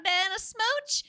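a lightly posed British aristocratic goddess. Acted. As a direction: play a haughty British noble goddess, lightly. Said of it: "Full British aristocracy".

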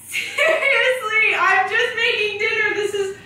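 annoyed roommate. Acted. Roommate acting annoyed at couple.

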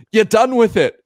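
high, loud mock-Glaswegian question; thick Glasgow accent. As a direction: call it out as an imitation Glasgow Scot. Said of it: "like, a thick accent".

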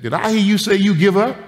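put-on high, surprised little girl asking; small child, high and searching. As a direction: sound like a five-year-old catching you out. Little girl voiced in story.

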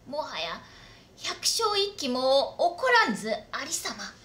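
loyal samurai pleading formally with his lord; earnest retainer. Acted. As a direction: urge him, voice rising in earnest.

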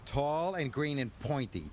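lightly voiced Thomas, cutting in proudly; a hint of know-it-all; chuffed and cocky. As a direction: interrupt with smug confidence. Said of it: "chuffed Thomas".

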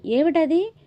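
landlady shouting down from upstairs, alarmed; calling down. A narrator's reading. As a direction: yell down to ask what's going on. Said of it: "Rukminamma గారు కేకపెట్టింది".

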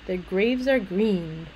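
slow, even "graves" and "green"; alliteration shown. Shown as a demonstration. Teacher demonstrating alliteration, slow weight on "graves" and "green". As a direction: draw out "graves" and "green" to show the shared sound.

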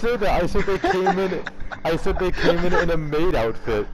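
defensive shouting. Real, not acted. Defending himself loudly.

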